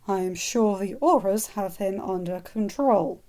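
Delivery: tense, strained reassurance. Acted. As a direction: force the calm through tension. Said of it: "in a very strained voice".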